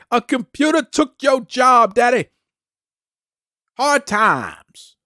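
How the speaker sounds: slow mock promo voice, lingering on each word; Dusty Rhodes impression. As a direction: lay it on like a veteran cutting a promo on his son. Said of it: "That's my Dusty Rhodes impersonation".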